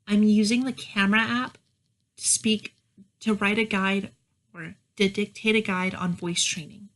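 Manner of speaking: exaggerated inflection, up and down; sharp vowels with a swinging melody; exaggerated feminine cadence. Shown as a demonstration. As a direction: overdo the feminine lilt. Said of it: "that's a little exaggerated".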